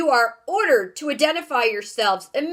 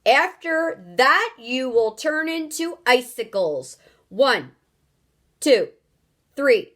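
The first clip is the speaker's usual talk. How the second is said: loud, raised threatening countdown; booming ultimatum; 3 semitones higher, 4 dB louder than usual. Acted. Houston threatens the strangers with freezing, booming ultimatum. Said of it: "boomed the voice".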